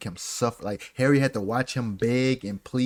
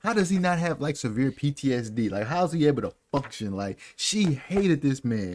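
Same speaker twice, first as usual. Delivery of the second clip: exasperated rant; 4 semitones higher, 3 dB louder than usual. Real, not acted. Ranting about the author's cruelty to Harry.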